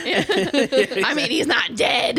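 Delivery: laughing. Real, not acted. Laughing at the story.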